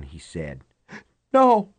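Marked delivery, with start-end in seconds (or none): 1.3-1.7 high, loud panicked no; panicked shout. Acted. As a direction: cry it out in panic. She refuses in panic.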